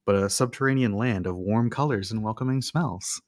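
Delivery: measured game master read-aloud; scene narration. Acted. Game master sets the underground scene for players, measured narration.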